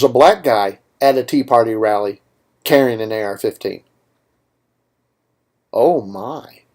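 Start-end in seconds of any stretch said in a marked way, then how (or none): 5.7-6.6 Sulu impersonation. Acted. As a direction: do your best Sulu, stretched out and savored. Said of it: "That's my best Sulu impersonation".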